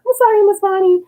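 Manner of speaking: put-on a nine-year-old sweetly apologizing; sing-song kid apology. Girl apologizing to her teacher in a sing-song. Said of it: "She's like".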